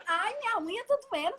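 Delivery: high mock whine. Jerônimo cries about his toenail.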